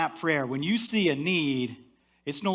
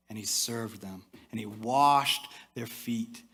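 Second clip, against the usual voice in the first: slow emphasis; 3 semitones lower, slower than usual. Real, not acted. Slow, dwelling final image.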